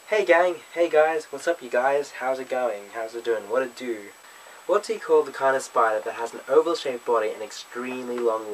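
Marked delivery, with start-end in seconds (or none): 0.1-4.1 cheery group hello that relaxes toward the end; upbeat greeting. Shown as a demonstration. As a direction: greet the gang like a YouTuber. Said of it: "It's more like".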